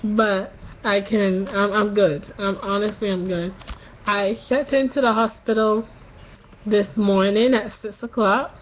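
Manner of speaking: sore-throat voice after tonsil surgery; post-surgery voice. Real, not acted. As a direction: talk like your tonsils just came out. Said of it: "you notice something about my voice".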